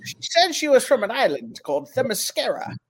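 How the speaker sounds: hardboiled detective voiceover; noir detective. Pretend. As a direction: narrate it like a gumshoe. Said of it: "record yourself voicing right there".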